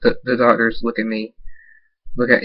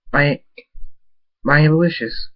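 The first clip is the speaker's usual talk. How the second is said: higher, put-on delight; fake cheer; 5 semitones higher than usual. A narrator's reading. Patient greets Abel with a fake smile, cheery. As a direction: greet a loved one as if all is fine. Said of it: "I put a fake smile on".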